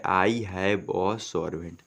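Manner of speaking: each word read slowly and clearly; slow dictation pace; slow reading aloud. Shown as a demonstration. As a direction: read the sentence out word by word for students. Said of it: "क्या लिखा है".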